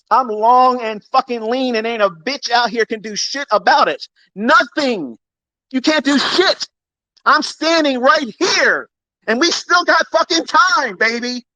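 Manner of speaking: slow high gloating boast to doubters; cocky taunt. Real, not acted. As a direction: taunt rivals, chest out.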